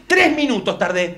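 slow, deliberate announcement; pointed complaint. Acted. Argentine reporting his timed walk, slowly and pointedly. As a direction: spell out the result slowly.

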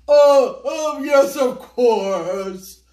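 loud flustered "oh, oh, yes"; hasty flustered reply. Acted. Mister Ao Yang scrambles to answer Little Chow, flustered. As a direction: cover yourself quickly, caught out. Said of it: "hastily replied".

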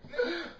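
short burst of high giggling; high-pitched laugh. Real, not acted. Laughing after he left.

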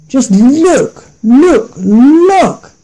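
high, excited pointing; eager little goat. A narrator's reading. Little goat spotting the garden, high and eager. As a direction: bounce up on each look. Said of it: "said the little billy goat gruff".

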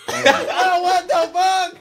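high, loud disbelief with laughter; shocked outburst. Real, not acted. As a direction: cry out in stunned amusement. Shock at blindfold reveal.

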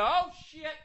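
very high, strained mock-preacher voice; a red voter spins the flood as God's will, hammed up; preachy red voter. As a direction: ham up a pious spin, then fade. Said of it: "They're gonna".

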